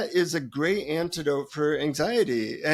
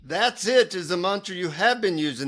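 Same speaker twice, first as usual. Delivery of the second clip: higher-pitched imitation of an Indian guru; Indian accent; 3 semitones higher than usual. Guru explaining the seeker's wrong mantra, Indian accent. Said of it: "he says in an Indian accent".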